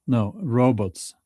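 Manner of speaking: "robots" as one word, slow, falling. Shown as a demonstration. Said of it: "r-, robotics".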